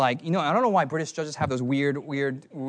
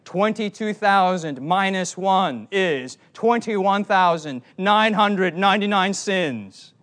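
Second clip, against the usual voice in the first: a hint of a stern old British judge, slow; mock pronouncement from the bench, drawn out; lightly hammed-up wigged judge summoning the accused; 3 semitones higher, 5 dB louder, slower than usual. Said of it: "in my imagination, the judgment was".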